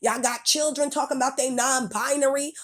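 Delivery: sharp scolding rant; angry rant. Real, not acted. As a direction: tell them off, fed up. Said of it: "That's why I spoke angrily".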